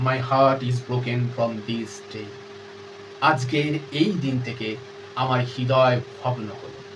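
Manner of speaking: low, soft, slow and drained; weak voice. Acted. Heartbroken mother answering her daughter, in a weak voice. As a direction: let the grief sap the voice. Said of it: "with a weak voice".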